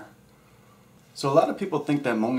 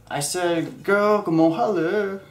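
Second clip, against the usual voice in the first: louder, higher, pushing the line again; insistent louder pickup line; 8 semitones higher, 6 dB louder, slower than usual. Pretend. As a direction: call it out to her again, louder.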